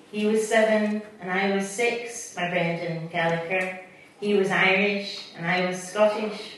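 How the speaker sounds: measured poetry reading with a refrain; poem reading. Acted. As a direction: read the poem gently to the audience. Reads the Brendan Gallagher poem.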